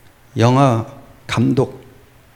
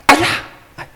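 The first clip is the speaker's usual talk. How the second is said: short, loud yelp; sudden high "ow" in imitation; mock yelp of pain; 5 dB louder, faster than usual. Preacher mimics a spanked child, acted yelp of pain.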